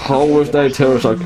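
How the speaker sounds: loud, fast outraged gamer; raging gamer. Real, not acted. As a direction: yell it in disbelief at the screen. Disbelief at getting hit.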